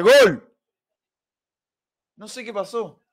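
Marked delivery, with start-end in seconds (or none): 0.0-0.4 shrieking gol gol gol, very high; goal scream. Real, not acted. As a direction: lose it over the goal. Goal celebration while watching.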